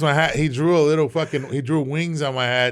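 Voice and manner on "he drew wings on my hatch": normal talking voice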